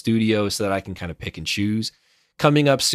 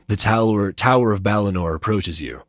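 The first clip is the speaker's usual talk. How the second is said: serious narrator voice; 3 semitones lower than usual. Acted. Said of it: "I got to do that voice".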